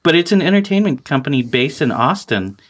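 even, practised announcer-style read; scripted promo read. Acted. Host introducing Rooster Teeth to listeners, scripted promo read. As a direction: read it out like sponsor copy.

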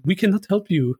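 half-hearted bad French accent; terrible French accent. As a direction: fake a French accent, letting it tail off. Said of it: "that's my terrible, uh, French accent".

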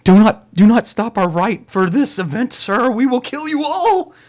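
high, loud and slow put-on villain; posh villain voice. Purgers threaten the family, slow high put-on villain voice. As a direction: enunciate it like an overpolite killer. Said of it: "he talks like this".

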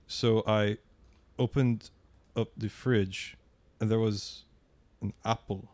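slow, halting, searching for words; halting slow delivery. Retold or imitated. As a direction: pause between every few words. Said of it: "is he remembering what words are as he speaks".

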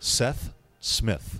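slow, careful Seth Smith; over enunciating. Shown as a demonstration. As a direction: say Seth Smith slowly, each word apart. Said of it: "I say it very slowly every time".

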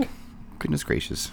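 breathy high wholesome gasp; exaggerated sweet innocence; fake wholesome.

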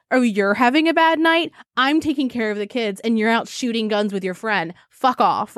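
mock fed-up wife; lightly acted, so over these men. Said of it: "you could tell they're fucking over them".

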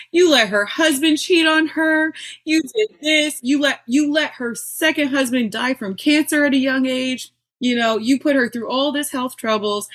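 angry outburst at God. Retold or imitated. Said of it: "I was pissed".

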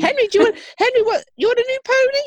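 high sing-song coaxing voice; high playful voice. Pretend. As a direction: coax a child, voice up high. Voicing someone offering Henry a pony.

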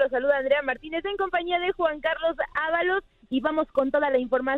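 upbeat radio presenter opening; radio host intro. Pretend. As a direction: open the show like a sports radio host. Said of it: "A ver, Andrea, a ver".

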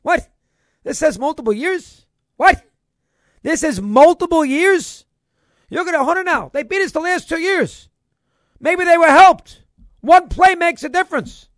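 a touch of a fan's indignant disbelief; incredulous Ohio State fan. Acted. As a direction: lightly play a fan questioning the losses. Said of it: "if you're a fan of the Ohio State".

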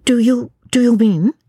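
questioning. A narrator's reading. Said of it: "she asked".

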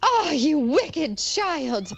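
slow, loud witch cry; wicked child cry. Acted. Enchantress crying out at Rapunzel in slow, loud anger. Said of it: "cried the enchantress".

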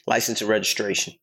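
low, curt cop demand; flat, cold officer voice. Retold or imitated. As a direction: bark it like an unfriendly cop. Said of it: "Not nice".

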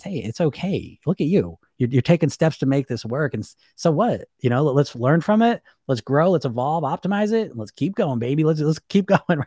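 easygoing, reassuring inner voice; mild encouraging coach talk; supportive, encouraging. Acted. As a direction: gently cheer them on. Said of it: "it's a supportive voice, an encouraging voice".

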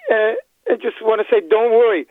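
holding back tears as he speaks; choked up. Real, not acted. Caller to the radio host, choked up. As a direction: voice catching with emotion. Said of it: "I'm very emotional".

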